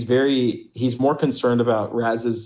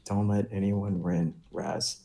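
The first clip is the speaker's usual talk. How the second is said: mentor advice; 3 semitones lower, 8 dB quieter than usual. Acted. Mentor giving serious advice.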